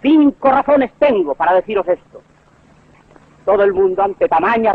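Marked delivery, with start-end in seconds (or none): 0.0-2.2 lightly acted orator, pitched somewhat higher; mock oratory, laying down reasons to the public; orator addressing crowd. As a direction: declaim it like a public speaker. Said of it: "Se puede usar de ella para decir".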